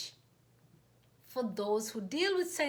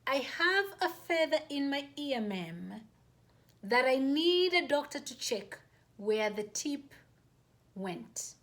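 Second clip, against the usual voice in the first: repeating the line more slowly and deliberately; slower, careful repeat; slower and clearer. Retold or imitated. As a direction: spell it out carefully for someone who missed it. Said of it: "even more slowly so she may get".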